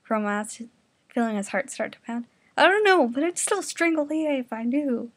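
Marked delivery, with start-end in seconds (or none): 2.6-5.1 loud retort. Acted. Angry retort in fanfic reading.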